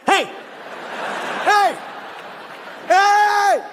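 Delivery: high, drawn-out yell, building; panicked calling out. Acted. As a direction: yell after someone as you roll away. Calling out from runaway wheelchair.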